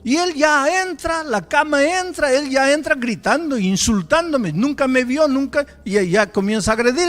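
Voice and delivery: loud, high, driving sermon delivery; preaching at full force. Acted. Preacher to the congregation, loud and driving. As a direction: push the story hard to the crowd. Preacher building the story loudly.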